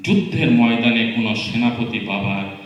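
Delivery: declaimed Bengali poem, lines set apart by pauses; poem recitation. Acted. Reading sister's Bengali poem to guests, recited.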